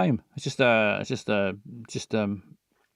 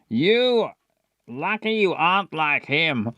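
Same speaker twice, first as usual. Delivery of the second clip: asthmatic Tom; 4 semitones higher, much slower than usual. Shown as a demonstration. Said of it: "a bit like a sort of asthma".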